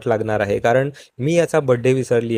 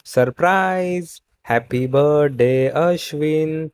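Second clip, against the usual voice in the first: drawn-out, higher cheer of surprise, slow; mock surprise shout; 3 semitones higher, much slower than usual. Family springs a birthday surprise on Ashwin, drawn-out mock cheer. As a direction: stretch out a party cheer. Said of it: "सगळे जोरजोरात ओरडतात".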